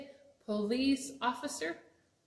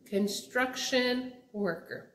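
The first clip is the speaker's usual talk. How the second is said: slow; slower than usual. Shown as a demonstration. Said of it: "I know this is a hard one".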